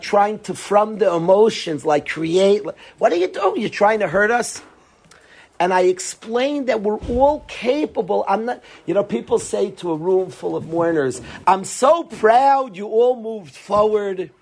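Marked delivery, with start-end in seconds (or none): 3.0-4.6 imitating an angry accuser; mock confrontation. A man accusing the rabbi of causing pain, mock angry. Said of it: "He got in my face". 11.5-14.3 slow, syrupy mock pride; hammed-up cheap compliment; cheesy mock praise. Speaker mocking hollow words to mourners, slow and cheesy. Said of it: "the cheap, cheesy".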